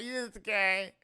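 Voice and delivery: put-on wailing drunk mother, high and loud; overdone tearful wail of relief; mock crying. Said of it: "alcoholic of a mother is crying".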